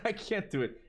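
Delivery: high, laughing refusal; cracking up while begging off. Real, not acted. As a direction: give up with a laugh. Laughs off a voice request.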